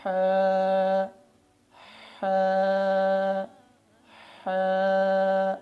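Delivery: ہا breathed out softly and lightly. Shown as a demonstration. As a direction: model the correct gentle ہا. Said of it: "نرمی سے نکالنی ہے".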